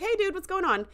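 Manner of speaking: playful high-pitched hey dude; mock cheery greeting. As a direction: bounce in like a pushy friend. Friend barging in cheerfully.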